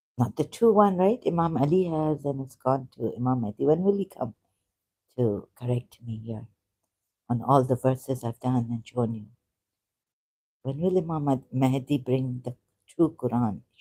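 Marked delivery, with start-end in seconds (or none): none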